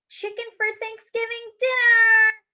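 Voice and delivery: high, loud put-on grandpa voice; grandpa's joke. Grandpa teases Miguel about dinner, high and loud. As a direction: announce it like a big joke.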